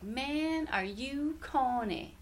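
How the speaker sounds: high, drawn-out imitation of a scornful girl; mocking cartoon girl. Quoting the cartoon girl's put-down, high mock drawl. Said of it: "and she's like".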